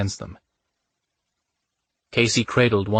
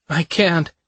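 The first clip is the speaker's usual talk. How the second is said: fearful; 8 semitones higher, 3 dB louder than usual. Acted. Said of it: "gripped suddenly by a paralyzing fear".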